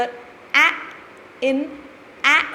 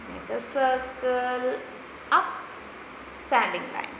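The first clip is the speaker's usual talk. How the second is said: quiet slow tracing instruction; 8 dB quieter, much slower than usual. Shown as a demonstration. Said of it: "Let's do it one more time".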